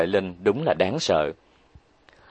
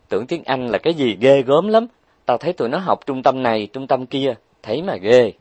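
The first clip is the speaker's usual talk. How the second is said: bragging Huệ Linh; 4 semitones higher than usual. Acted. Huệ Linh bragging about English.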